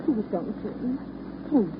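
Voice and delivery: a stammering, anguished outburst; distressed pleading. Acted. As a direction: plead as if you're about to break down. Bella breaks down, can't go on.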